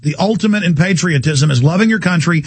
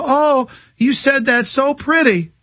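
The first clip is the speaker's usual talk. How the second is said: mock swooning woman; 5 semitones higher, slower than usual. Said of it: "And she'd go".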